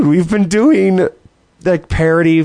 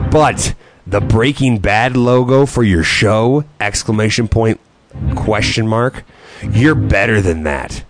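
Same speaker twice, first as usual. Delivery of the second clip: low, slow, heavy big guy voice; 6 semitones lower than usual. Acted. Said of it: "should I do the big guy voice every time".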